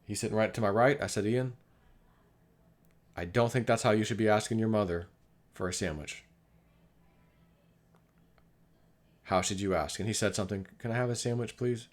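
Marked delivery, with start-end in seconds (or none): 1.2-10.0 calm correction. Retold or imitated. Father correcting his son over asking for a sandwich, calmly. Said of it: "I talked to him calm". 10.8-11.9 soft, polite child's request, lightly imitated; asking nicely. Son re-asking for a sandwich after correction, nicely. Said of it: "ask her nicely like that".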